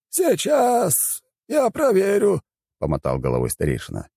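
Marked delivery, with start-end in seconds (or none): 0.1-2.4 high, thin elder voice, slow and musing; a strange high old shaman weighing the spell. A narrator's reading.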